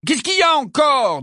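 agacé, plus aigu et plus fort; lance-le avec exaspération; ton irrité. A narrator's reading. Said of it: "d'un ton irrité". (ton irrité d'attrapeur interrompu)

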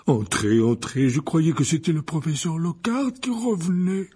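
big giant's voice, lifting in welcome; hearty gamekeeper, rising in pitch; Hagrid. Acted. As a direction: usher them in, voice climbing.

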